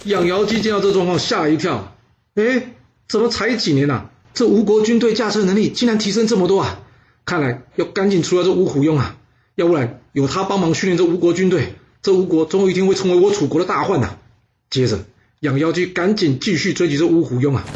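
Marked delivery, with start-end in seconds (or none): 2.4-14.2 startled. Acted. Startled general sees enemy improve.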